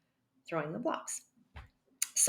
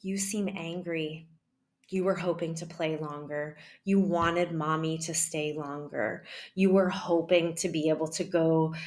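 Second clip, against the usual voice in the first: calm after breathing. Shown as a demonstration. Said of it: "I breathe".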